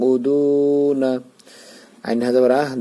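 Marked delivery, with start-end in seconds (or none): 0.1-1.1 slow, drawn-out recited word; Quran recitation. Shown as a demonstration. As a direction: chant it slowly with the long vowel. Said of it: "এখানে এক আলিফ টান নুন জবর না". (ধীরে টেনে তিলাওয়াত)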